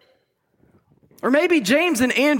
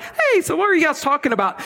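teacher asking casually; 6 semitones higher, faster than usual. Retold or imitated. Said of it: "You're like".

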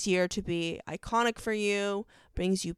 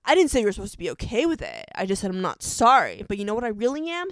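fast, emphatic retort in imitation; lightly acted drama-hero argument; Damon; 5 dB louder, faster than usual. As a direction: rattle off a mock-heated TV comeback. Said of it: "Damon's all like".

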